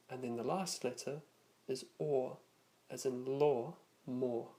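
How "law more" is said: British "law, more" with the same rounded or vowel; British style accent. Shown as a demonstration. Teacher recapping British style vowels, British or sound in "law, more". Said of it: "more British style usage".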